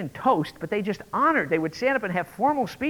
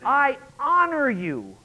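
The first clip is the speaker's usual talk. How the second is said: solemn host's blessing; 8 semitones higher, 6 dB louder than usual. Retold or imitated. Host's formal blessing speech.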